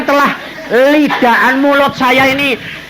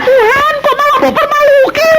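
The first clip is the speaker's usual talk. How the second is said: mother complaining to God in a high mock wail; mock pleading woman. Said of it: "Dia bilang".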